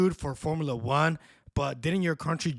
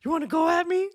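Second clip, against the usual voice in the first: put-on very high little-girl tough talk; cholilla gangster attitude; 14 semitones higher, 3 dB louder than usual. Little girl challenging whoever is listening, mock gangster attitude. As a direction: imitate a tiny gangster picking a fight. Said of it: "little cholilla gangster attitude".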